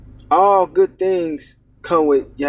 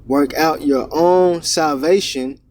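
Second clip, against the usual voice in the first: scripture reading. Acted. Preacher reads Philippians aloud.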